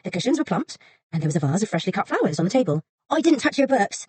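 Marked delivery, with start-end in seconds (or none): 3.1-4.1 anxious. Acted. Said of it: "suddenly anxious".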